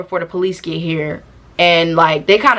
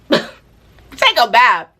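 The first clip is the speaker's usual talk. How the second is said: laughing; 2 semitones higher, much slower than usual. Real, not acted. Joke on washing.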